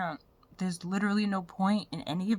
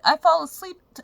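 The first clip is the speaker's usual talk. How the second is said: ordinary talk, nothing marked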